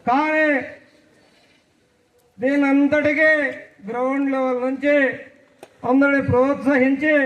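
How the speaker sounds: slow, deliberate politician address with long pauses; Chandrababu Naidu mimicry. Mimicking the chief minister for classmates, in a slow, drawn-out speech. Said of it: "Chandrababu Naidu గారు మాట్లాడితే ఎలా ఉంటుందో".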